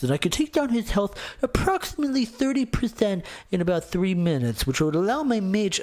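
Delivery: mock a player fussing over tiny percentages; mock stat-obsessed gamer. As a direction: pitch creeping up as the stats pile up.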